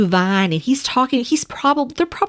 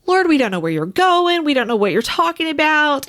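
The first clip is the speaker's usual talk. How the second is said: higher-pitched voice of confused followers; troubled; 5 semitones higher than usual. Retold or imitated. Disciples tell Jesus they don't understand, troubled. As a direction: imitate troubled disciples protesting. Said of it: "they're troubled".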